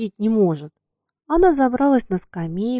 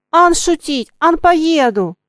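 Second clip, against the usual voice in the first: higher, louder defiant cry; defiant shout; 7 semitones higher, 6 dB louder, slower than usual. A narrator's reading. Girl to the coachman, defiant shout. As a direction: yell it back at him. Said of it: "закричала девочка".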